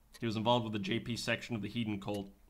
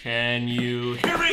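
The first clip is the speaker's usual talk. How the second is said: calling out loud; 9 dB louder, much slower than usual. Acted. Calling out to someone far away.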